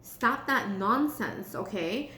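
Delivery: slow, measured telling-off; lightly acted Saturn laying down the law; stern scolding. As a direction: draw out the reprimand slowly. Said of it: "But Saturn is saying".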